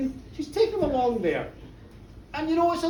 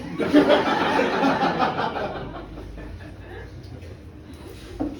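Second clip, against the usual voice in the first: long breathy, voiceless laugh. Real, not acted. Storyteller cracks up at the joke, long laugh. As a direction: laugh helplessly at your own joke.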